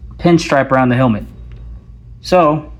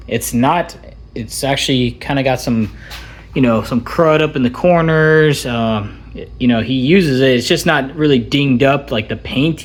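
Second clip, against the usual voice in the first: muffled through a helmet mic; talking inside a helmet with speakers; through helmet voice modulator. Real, not acted. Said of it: "this is the audio actually from the helmet".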